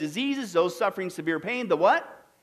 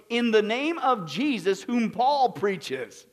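would-be exorcists; slower than usual. Acted. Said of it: "They would say, quote".

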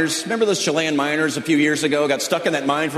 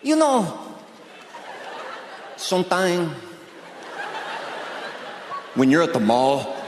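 imitated trapped miner. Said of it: "Do you think they're down that mine going".

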